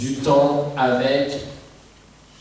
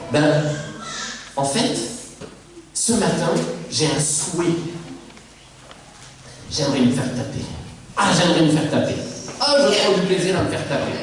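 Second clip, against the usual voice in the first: mock wish. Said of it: "en disant".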